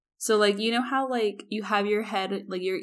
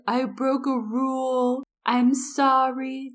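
slow, sorry, a little higher; drunk remorseful guy; 5 semitones higher, slower than usual. Retold or imitated. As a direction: drag out the apology like a guilty kid. Sick drunk guy apologizing.

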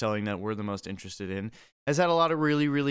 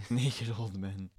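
mock title announcement; 2 semitones lower, 6 dB quieter, slower than usual. Real, not acted. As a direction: announce it like a silly episode title. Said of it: "that's the title of this episode".

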